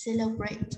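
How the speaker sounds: "Celebrate" with the opening CEL brought out; stress on first syllable. Shown as a demonstration. Teacher shows students first-syllable stress, clear "Celebrate". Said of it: "vậy chúng ta nhấn trong âm số một".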